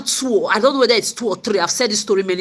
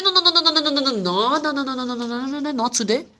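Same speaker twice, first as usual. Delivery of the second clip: defiant refusal; 5 semitones higher than usual. Retold or imitated. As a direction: insist no, then let it drop.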